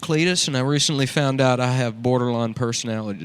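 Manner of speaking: lightly voiced redneck art hoe; redneck character. Cletus introducing his podcast, lightly redneck voiced. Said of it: "That's a good character, dude".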